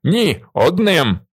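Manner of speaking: loud, slow, firm refusal; insistent shout. A narrator's reading. Willi insisting to the elder, slow loud. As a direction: hammer down the no. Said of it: "наполягає Віллі".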